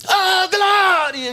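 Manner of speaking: long-held high cry of praise; loud glory shout. Retold or imitated. Imitating a churchgoer who always gave a glory, loud high shout. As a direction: belt out a drawn-out, high-pitched shout. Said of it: "ele dava um glória".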